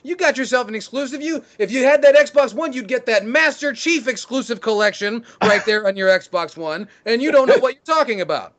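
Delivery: yelling fan. Retold or imitated. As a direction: heckle him like a jeering crowd. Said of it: "They're yelling at Razor Fist".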